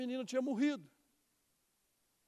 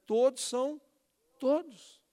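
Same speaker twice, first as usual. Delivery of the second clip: "Todos" punched higher and louder each time; stress on todos; 5 semitones higher, 6 dB louder than usual. Shown as a demonstration. Preacher stressing "todos" to the congregation. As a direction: lean hard on "todos" to drive it home. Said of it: "eu gosto muito de enfatizar isso".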